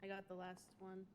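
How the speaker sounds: talking with a mouthful of food; mouth full. Real, not acted. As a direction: speak through a big bite. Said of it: "You gotta stop talking with your mouth full".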